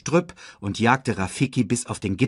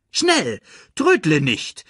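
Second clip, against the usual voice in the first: high, louder hurry-up call; 7 semitones higher, 5 dB louder, slower than usual. Acted. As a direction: urge him on from far ahead. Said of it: "rief Rafiki".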